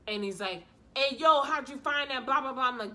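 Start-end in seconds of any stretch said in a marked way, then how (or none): 1.0-2.6 loud, higher-pitched startled protest; mock alarmed. Imitating Bob confronted with the article, mock alarmed. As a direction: imitate him caught out, louder and higher.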